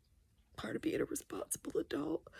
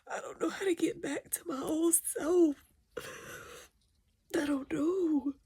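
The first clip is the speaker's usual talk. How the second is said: crying. Real, not acted. Grieving her mother's death.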